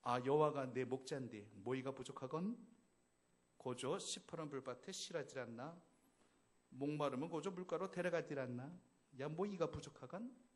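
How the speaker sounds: a lightly done Pyongan accent; 평안도 사투리 흉내; Pyongan dialect. Shown as a demonstration. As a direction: imitate a North Korean Pyongan speaker. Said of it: "평안도 사투리는 이렇죠".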